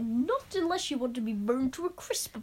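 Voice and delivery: lightly put-on comic accent; amateur silly accent; Mister Gorf. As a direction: attempt a funny creature accent. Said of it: "he has this hilarious accent".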